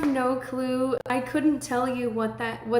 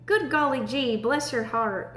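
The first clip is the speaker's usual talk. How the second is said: mock Southern accent. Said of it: "people will say".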